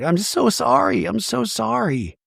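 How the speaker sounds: high, pleading mock apology; retold distressed pleading; acted apology. Voicing mother's repeated tearful apology.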